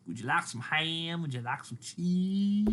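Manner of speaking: high, slow, sing-song clerk offer; chirpy supermarket deli server. Retold or imitated. Supermarket clerk offering ham and cheese, high sing-song. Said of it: "people going".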